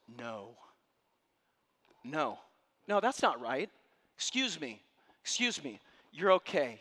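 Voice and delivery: loud, rising protest; voice ringing out. Retold or imitated. Stranger speaking up loudly for a grieving mother. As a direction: cut in firmly and loudly. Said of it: "one voice rings out".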